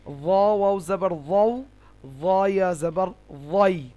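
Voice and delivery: ওয়াও and ওয়াই with a thick, full first sound; heavy pronunciation. Shown as a demonstration. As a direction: spell out to ওয়াই, heavy on ওয়া. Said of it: "মোটা উচ্চারণ". (ওয়াও, ওয়াই মোটা ও ভারী উচ্চারণে)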